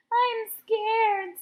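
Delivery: scared. A narrator's reading. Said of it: "the big crybaby".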